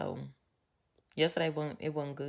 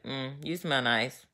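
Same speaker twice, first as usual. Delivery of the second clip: slow, grudging mm before the compliment; compliment with attitude; 2 semitones lower, 3 dB quieter, slower than usual. Shown as a demonstration. Telling her partner he smells nice, grudgingly with attitude. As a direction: hand him the compliment with attitude. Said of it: "with attitude or whatever".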